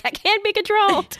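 high, defiant little mouse voice; voicing the mouse. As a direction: play the stubborn computer mouse. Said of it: "The mouse is like".

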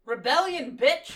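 loud, high, rising battle cry; defiant shout. Pretend. Guest rebelling against the improv rule, defiant shout. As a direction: yell it as a mock revolt.

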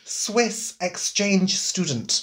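laughing, words slowed right down; slow laughing struggle. Real, not acted. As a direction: force it out slowly through laughter.

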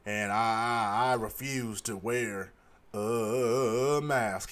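low, slow, dopey mock voice; lightly voiced stubborn customer; a hint of a sullen man refusing; imitating the mask refuser. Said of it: "He said it just like that".

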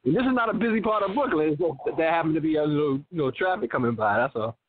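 echoey speakerphone voice; talking on a distant speakerphone. Real, not acted. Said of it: "it sound like you're in a tunnel of hell".

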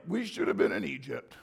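whiny. Retold or imitated. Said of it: "they're like".

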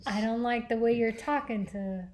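low, quiet, serious threat; a lightly voiced stern bouncer; deep firm voice. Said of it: "inner Liam Neeson".

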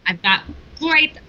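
playful put-on Russian accent; mock Russian accent. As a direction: boast in a fake Russian accent. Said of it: "great accent".

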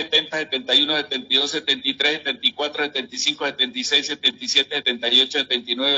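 brisk, steady run through the numbers; roll-call list reading. Real, not acted. Secretary reads article numbers to the assembly, brisk official recitation. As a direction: rattle off the list in a regular rhythm.

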